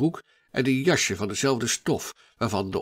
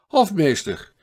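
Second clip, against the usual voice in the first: Hofmeester! called louder and higher, falling at the end; impatient second hail, louder still; calling louder; 6 semitones higher, 6 dB louder than usual. A narrator's reading. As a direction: shout Hofmeester! out, more insistent this time. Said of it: "maar nu wat luider".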